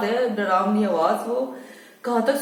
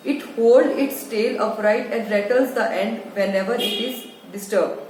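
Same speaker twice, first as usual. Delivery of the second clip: very slow, deliberate English text reading; slow reading aloud; much slower than usual. Acted. Teacher reading the textbook line to children, slow and deliberate. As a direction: read each word out slowly for the class.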